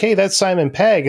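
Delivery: retold moment of spotting the actor by his voice; surprised recognition. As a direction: blurt it out like you just recognized him. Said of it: "I was like".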